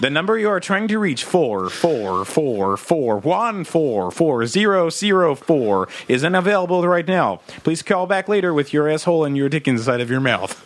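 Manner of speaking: robotic recorded operator reading digits; over a landline phone. Pretend. Parody number not available.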